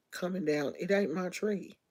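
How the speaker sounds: ordinary talk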